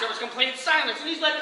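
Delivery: normal talking voice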